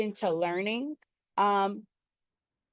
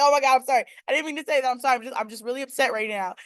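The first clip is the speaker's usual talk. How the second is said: frantic apology to God; 4 semitones higher, faster than usual. Retold or imitated. Mock-frantic apology to God after cussing. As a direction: overdo the guilty apology. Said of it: "that's how I'll be like".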